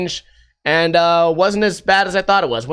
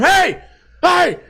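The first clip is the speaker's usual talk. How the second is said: barber yelling; 12 semitones higher than usual. Retold or imitated. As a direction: yell to a guy passing on the street. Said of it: "the barber yells at him".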